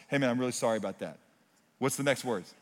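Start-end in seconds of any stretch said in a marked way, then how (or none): 0.1-1.2 casual quick apology. Shown as a demonstration. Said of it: "Watch this".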